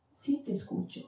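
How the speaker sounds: soft, breathless whisper of God's voice; whispered reply. Retold or imitated. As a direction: whisper it gently, as God answering. God answers the desperate girl.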